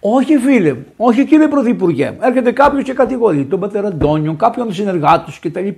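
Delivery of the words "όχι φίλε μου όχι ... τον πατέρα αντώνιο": ordinary talk, nothing marked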